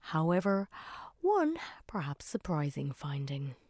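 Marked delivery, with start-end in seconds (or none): 1.2-3.6 hushed, secretive whisper; teasing whisper. Acted. Teasing a surprising finding.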